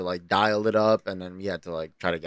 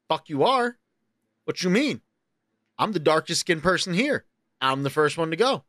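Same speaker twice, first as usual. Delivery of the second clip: higher-pitched mock indignation; indignant refusal; 4 semitones higher than usual. Telling friends about the adventure outside, acting indignant. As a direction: push back in disbelief, pitched up.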